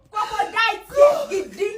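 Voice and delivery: mocking shout. Wife mocking husband's tears.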